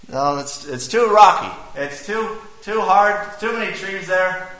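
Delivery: sketch a French officer with a hammed-up French accent. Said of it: "I'm gonna try to do a French accent".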